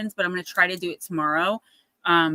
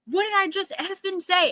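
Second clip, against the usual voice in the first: retold scream; 10 semitones higher than usual. Guy yelling at her for crossing, mock scream. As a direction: imitate an angry man screaming, voice pitched right up. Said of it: "And he is screaming".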